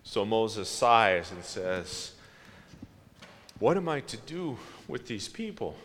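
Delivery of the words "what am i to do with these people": weary, softer parent's exasperation; a tired parent at the end of their rope; exasperated sigh. Retold or imitated. Moses sighing at his grumbling people, exasperated. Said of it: "in a tone that every parent ever has had".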